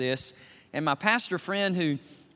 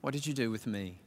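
solemn question; 3 semitones lower, 7 dB quieter than usual. Retold or imitated. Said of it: "he's gonna ask you".

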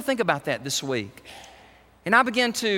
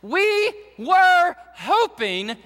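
dashed hopes; 8 semitones higher, slower than usual. Retold or imitated. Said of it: "touch their tangible sadness".

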